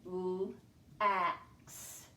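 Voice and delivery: L-ax with the short a in the middle stressed; vowel in the middle. Shown as a demonstration. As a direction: bring out the a in L-ax. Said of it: "Listen for the vowel placement".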